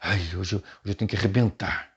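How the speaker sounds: put-on pulpit theatrics, mildly hammed-up; mock theatrical preacher. Shown as a demonstration. Teacher warning against theatre in preaching, mock theatrical. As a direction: ham it up like a showy preacher. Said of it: "não faça um teatro".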